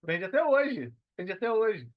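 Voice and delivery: proud, emphatic repeat; excited. Real, not acted. Host asks, guest proudly insists it still sells. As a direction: boast it loud and proud.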